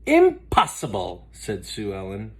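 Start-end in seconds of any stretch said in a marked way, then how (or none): 0.0-1.3 Sue Ellen's voice. Acted.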